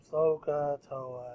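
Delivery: mopey, dejected, low and soft sad voice. Imagining how the group will sound on replay, imitating sad voices. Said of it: "it's gonna sound so sad".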